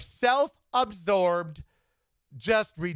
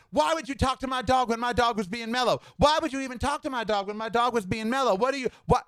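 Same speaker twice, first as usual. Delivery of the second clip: mildly heated imitation of a screamer, higher pitched; retold screaming; 4 semitones higher, faster than usual. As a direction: mimic an angry rant without really shouting. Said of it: "and he starts screaming".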